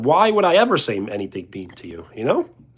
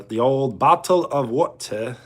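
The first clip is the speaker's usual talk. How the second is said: lightly put-on British accent. Streamer trying a line for viewers in a British accent. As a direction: have a go at mock British. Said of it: "I did the British accent".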